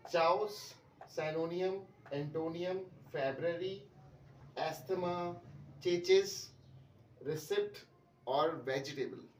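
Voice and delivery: चाउस, synonyms, antonyms, February, asthma, चेचिस, रिसिप्ट, वेजिटेबल said the common wrong way; wrong pronunciations demo. Shown as a demonstration. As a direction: list each word deliberately mispronounced. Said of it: "कोई भी word सही pronounce नहीं किया".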